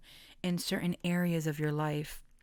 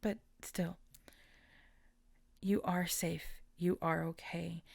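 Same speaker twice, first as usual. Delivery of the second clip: soft reassurance; 4 dB quieter than usual. Real, not acted. Soft reassurance after crying.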